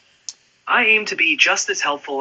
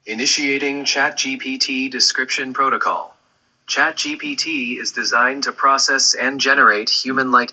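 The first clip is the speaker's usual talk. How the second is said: flat, even robot voice. Pretend. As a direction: speak like a machine. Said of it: "sound like a robot when you do it".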